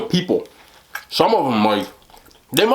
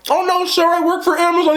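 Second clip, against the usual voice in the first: high-pitched imitation of a flustered woman; mock pleading. Busted delivery lady excusing herself to homeowner, mock pleading. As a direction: plead like someone caught red-handed.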